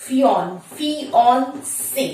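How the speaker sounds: ফিয়ন then ফিয়ন্সে, slowly split into parts; slow broken-up ফিয়ন্সে; syllable breakdown. Shown as a demonstration. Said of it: "দেখো এইভাবে বলবে".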